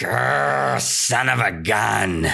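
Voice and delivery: drawn-out, grumbling mild anger; mock angry growl. Villagers tricked by the shepherd boy, mock angry. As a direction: grumble it slowly, hamming up the annoyance. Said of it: "They were very angry".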